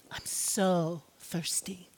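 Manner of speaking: slow, unvoiced dying whisper; whispered thirst. Jesus on the cross whispering his thirst. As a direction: barely breathe I'm so thirsty. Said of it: "Jesus' last words retold".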